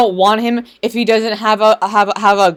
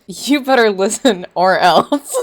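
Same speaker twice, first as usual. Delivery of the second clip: mock menacing. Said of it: "That is exactly what you guys sound like".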